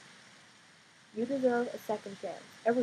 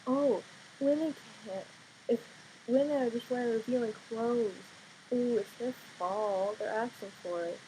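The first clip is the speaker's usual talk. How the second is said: mocking a sexist excuse, dragged out; mocking quote; 3 semitones higher than usual. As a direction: sneer it like a sexist bro. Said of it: "the whole stupid subject about".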